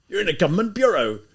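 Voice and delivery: loud, high, stressing bureau; livid rebuke. Acted. Livid lieutenant rebuking the student, loud and high. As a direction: thunder it as an official rebuke. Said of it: "so livid".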